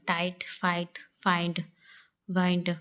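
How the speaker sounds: टाइट, फाइट with the 'eye' diphthong; long 'i' demo. Shown as a demonstration. Teacher showing how I is said, 'eye' in टाइट and फाइट. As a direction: list फाइंड and वाइंड with a full 'eye' sound. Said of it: "आई का उच्चारण".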